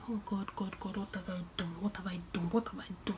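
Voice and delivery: scared seamstress murmuring to God over the ruined dress; despairing murmur. Retold or imitated. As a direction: mutter it to yourself in dread. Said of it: "I was like".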